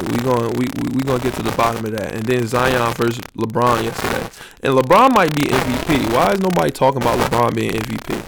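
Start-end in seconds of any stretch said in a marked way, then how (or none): none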